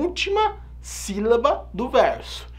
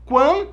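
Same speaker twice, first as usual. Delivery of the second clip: Quan slow and louder; stressed syllable; 6 semitones higher, 5 dB louder than usual. Shown as a demonstration. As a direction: hit Quan as the strong beat. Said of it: "ó o forte".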